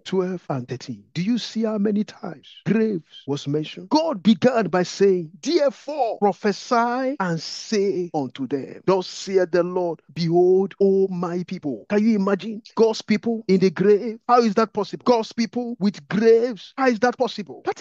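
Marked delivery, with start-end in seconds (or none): 5.4-11.9 preacher solemnly declaiming a verse; scripture declamation. Real, not acted.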